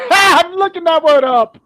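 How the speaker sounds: words squeezed out through real laughter; giggling while saying you'll look it up; laughing. Real, not acted. To co-host, laughing about the word gump.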